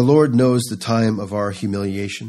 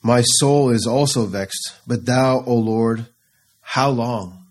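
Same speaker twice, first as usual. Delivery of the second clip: mild pleading lament; slower than usual. Acted. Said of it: "David cries out".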